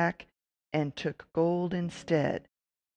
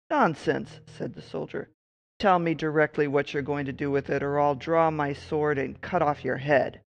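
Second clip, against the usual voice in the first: threatening; 3 dB louder than usual. Acted. Soldier threatens the witch.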